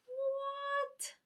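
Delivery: very high, drawn-out squeal of disbelief; retold astonishment. Fan sees Naruto suddenly show up, retold astonishment. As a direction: let it soar way up in mock shock. Fan's retold reaction to surprise rescue.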